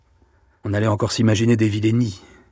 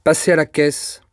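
high, ringing final verdict; solemn dismissal; 5 semitones higher, 4 dB louder than usual. A narrator's reading. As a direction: pronounce the sentence like an emperor. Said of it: "La terrible phrase sonna très haut". (verdict solennel qui sonne haut)

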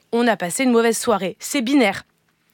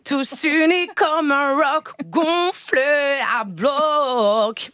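put-on slow, drawn-out Marseille accent, like a jingle; mock Marseille-accented radio pun; much slower than usual. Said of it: "j'ai essayé de vous imiter ... Avec l'accent de Marseille".

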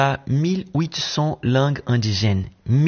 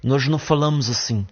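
quick demo of a Portugal Portuguese accent, lightly done; light European Portuguese accent, clipped and quick; faster than usual. Shown as a demonstration. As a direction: show how they speak in Portugal, a bit fast. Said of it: "qui ne parle pas avec un accent portugais".

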